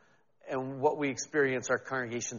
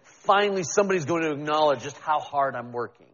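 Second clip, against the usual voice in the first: passive aggressive; 3 dB louder than usual. Retold or imitated. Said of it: "passive aggressive sort of way".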